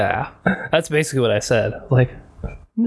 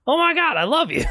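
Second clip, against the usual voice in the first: much higher, squealing "Oh my God"; mock gushing delight. Hamming up delight at a Canadian, squealing high. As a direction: gush like a starstruck fan.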